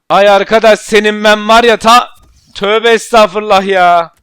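exasperated cursing. Real, not acted. Cursing the game, holding back.

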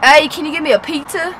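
attempted New York accent. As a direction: practise sounding like a New Yorker. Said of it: "I gotta practice my".

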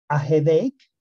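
"headache" said as "xedeik" with a rising end; teacher modelling "headache"; pronunciation model. Shown as a demonstration. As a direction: model "headache" clearly for the class. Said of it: "aquí les con la pronunciación".

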